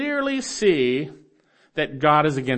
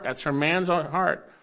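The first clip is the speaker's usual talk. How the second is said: slower, softer repeat; slower than usual. Real, not acted.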